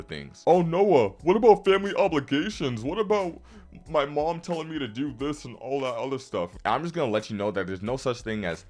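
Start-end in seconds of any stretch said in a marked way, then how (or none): 0.5-6.5 high, loud mock protest that eases off; objecting viewer. Viewers objecting about family obligations, mocked in a high voice. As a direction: put on a high-pitched complainer. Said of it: "an argument a lot of people will have".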